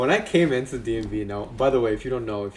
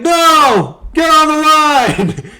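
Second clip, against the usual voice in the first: very high, loud mock bellow; drawn-out, hammed-up shouted command; imitated yelling; 11 dB louder, much slower than usual. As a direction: roar the order, imitating an angry husband. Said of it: "He's, like, yelling at his".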